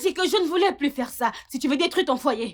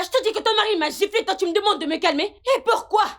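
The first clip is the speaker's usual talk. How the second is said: fast and higher, with an incredulous laugh; indignant outburst; 6 semitones higher, faster than usual. Acted. Tamara indignant that Madame tells her to calm down. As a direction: fire the words off in disbelief.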